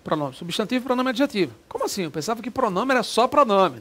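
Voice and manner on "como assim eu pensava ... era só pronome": mock student. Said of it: "teacher voicing a confused student".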